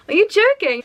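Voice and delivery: high, loud retold disbelief; acted shock, pitch leaping up; incredulous. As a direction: exclaim it as if he must be kidding. Retold disbelief at his remark.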